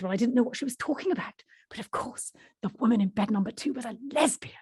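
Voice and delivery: lightly voiced Yorkshire storyteller; Yorkshire accent. The speaker explaining to the interviewee, light Yorkshire accent. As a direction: play up the reveal in mild Yorkshire. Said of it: "Barbara's the Yorkshire woman".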